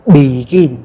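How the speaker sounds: "begin" with "be" dropped low and GIN held level; stress on final syllable. Shown as a demonstration. Teacher shows the falling first syllable, end stress on "begin". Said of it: "chuyển nó thành dấu huyền".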